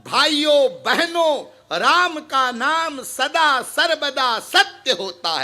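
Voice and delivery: slow, measured proclamation; acceptable public address. Shown as a demonstration. Showing how to say it to brothers and sisters, slow proclamation. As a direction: proclaim it slowly, like addressing a gathering. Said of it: "लेकिन ऐसे बोल".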